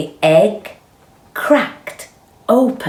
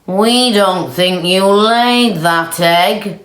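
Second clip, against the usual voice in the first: slow accusing; 4 semitones higher, 5 dB louder, slower than usual. Acted. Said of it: "the cow said to Marjorie".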